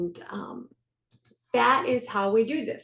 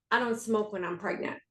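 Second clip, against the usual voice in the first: quiet, settled statement of fact; firm declaration; 5 dB quieter than usual. Retold or imitated. Mother stating she no longer smokes, calm and firm. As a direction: say it as a done deal, not a wish.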